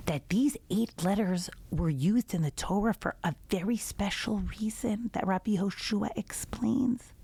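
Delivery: hushed, secret-sharing whisper. Acted. Teacher whispers the rabbi's message to the listeners. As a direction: lean in and whisper the lesson.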